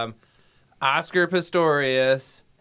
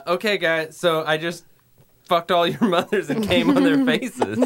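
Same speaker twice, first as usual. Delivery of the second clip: over the top; 4 semitones higher than usual. Acted. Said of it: "Really hard".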